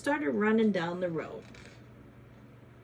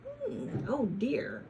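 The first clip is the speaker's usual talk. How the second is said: honking goose; 3 semitones higher, much slower than usual. Acted. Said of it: "she honked".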